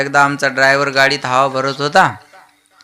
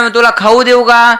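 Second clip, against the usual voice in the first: high-pitched mock mother's offer; coaxing mother; 9 semitones higher, 4 dB louder than usual. Mother offering a treat to crying child, high coaxing. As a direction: coax the little one, voice lifted.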